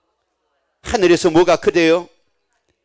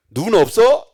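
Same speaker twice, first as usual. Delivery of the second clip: loud breathy snarl; sneering rude jab; 2 semitones higher, 6 dB louder, slower than usual. Retold or imitated. Man who bumped someone, loud breathy rude jab. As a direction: snap it at a stranger. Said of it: "뭐라고 또 거기다 얘기합니까".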